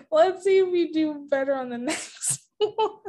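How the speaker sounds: real chuckle breaking into the words; chuckling. Real, not acted. Host moving the player to the next round, chuckling. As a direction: talk through a small chuckle. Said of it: "I guess I'm chuckling".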